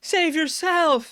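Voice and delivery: Peeta's noble plea played as slow melodrama; mock melodrama. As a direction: ham up a noble self-sacrifice, drawn out. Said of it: "he's like".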